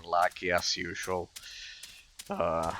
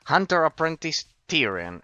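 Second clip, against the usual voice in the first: reading NPC lines; 7 semitones higher, 6 dB louder than usual. Acted. Reading NPC name aloud.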